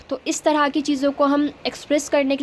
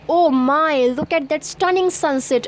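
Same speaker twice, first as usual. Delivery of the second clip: awed; much slower than usual. Shown as a demonstration. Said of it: "तो आप उसको देख के बोलेंगे".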